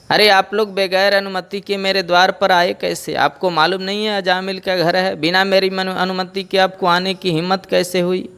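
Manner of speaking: furious bellow at the door; roaring angrily. Acted. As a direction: bandit roars at uninvited monks. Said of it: "गर्जना करता है जोर से".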